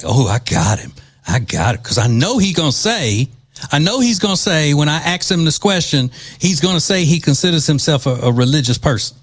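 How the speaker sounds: loosely imitated New Jersey accent, lively and gloating; half-managed New Jersey accent, mocking a woman in an argument; attempted New Jersey accent. Host imitates congresswoman plotting her question, mock New Jersey accent. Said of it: "I can't do the New Jersey accent".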